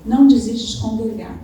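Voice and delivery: loud, stressed exhortation to the church; preacher pressing the flock not to give up, forceful; emphatic preaching. Real, not acted. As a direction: hammer the point home from the pulpit.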